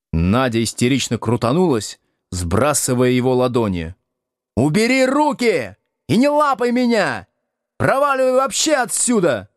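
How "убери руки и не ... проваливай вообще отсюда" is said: high shrill furious cry; raging. Acted. Надя бушует на мужа из-за гостя, яростно и высоко. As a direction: rage at him in a high voice. Wife pushes off groping guest.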